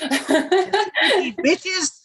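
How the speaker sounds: high-pitched insult through laughter; mock asshole insult. Streamer pretending to abuse the listeners, mock asshole insult. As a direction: toss out a playful insult, laughing. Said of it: "If I'm an asshole to y'all".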